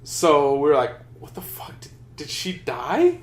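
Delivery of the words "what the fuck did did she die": hushed, halting mock disbelief; retold stunned disbelief. Guild members reacting to an apparent memorial, hushed disbelief. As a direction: drop to a near-whisper, as if stunned.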